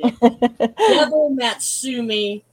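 Devil Matsumi spelled out slowly, syllable by syllable; careful Japanese name. Real, not acted. Guest carefully sounding out Devil Matsumi in Japanese. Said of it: "I'm trying to speak Japanese".

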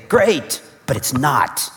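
high, forced "Great" hiding the truth; fake cheer. Churchgoer faking being fine when asked how their day is, forced cheer. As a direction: chirp it like everything's fine. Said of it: "And you say".

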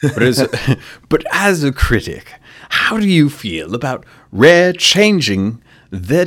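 laughing, high and loud; giggling through a mock-formal question. Playful mock-formal interview question.

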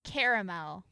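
CARAMEL as CARE-uh-mel; three-syllable caramel. Shown as a demonstration. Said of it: "find out how I pronounce it".

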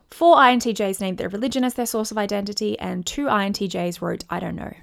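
tired voice with vocal fry. Real, not acted. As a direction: let the fry creep into the voice. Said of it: "I can feel a lot of vocal fry in my voice".

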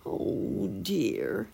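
high little bird peeps, then a fretful sigh; worried chirping. A narrator's reading. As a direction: peep like an anxious sparrow. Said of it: "he chirped".

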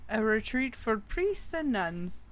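storyteller voice, dramatic and measured; spooky story narration. A narrator's reading. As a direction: tell it like a campfire ghost story.

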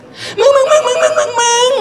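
high-pitched rapid-fire squeal, last one stretched; frantic high squeal to grab a friend's attention; giddy man-spotting. Acted. Woman to friend on spotting her dream guy, giddy. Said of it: "อันนี้คือเจอผู้ชายในสเปค".

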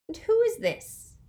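soft hissing snake voice; snake's hiss. A narrator's reading. Dark lord questioning a challenger, soft hiss. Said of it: "in his soft snake's hiss".

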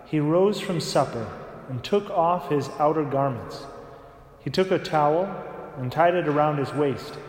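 solemn, measured Gospel proclamation; Gospel reading. Acted. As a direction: read the Gospel aloud at Mass.

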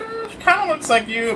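lightly voiced mom, pitched high; high, noncommittal mom voice; mom impression. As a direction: imitate a mom's hedging reply. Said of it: "what my mom would say".

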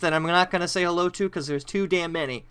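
upbeat radio host welcome; show host intro. Acted. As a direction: open the show like a broadcaster.

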